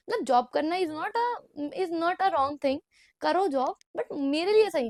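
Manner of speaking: worked-up, loud and slow on "is not a"; talking loudly. Real, not acted. Vlogger gets carried away telling viewers about jobs, loud. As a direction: raise your voice, driving the point home. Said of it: "मैं ज़ोर-ज़ोर से बोल रही हूँ".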